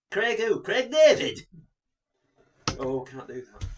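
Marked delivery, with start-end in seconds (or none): 0.1-1.5 high, loud mock announcement; showy comic call. Riffing on co-host saying Craig, high loud comic voice. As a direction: belt the singer's name out high.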